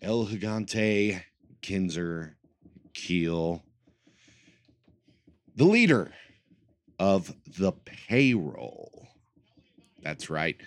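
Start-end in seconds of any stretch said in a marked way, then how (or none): 5.5-9.1 grand entrance announcement. Pretend. Announcing himself as leader.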